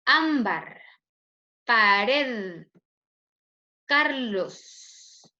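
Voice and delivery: "Ámbar", "pared", "Carlos" separately, first syllable pushed; penultimate-syllable stress. Shown as a demonstration. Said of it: "mayor fuerza de voz en la penúltima".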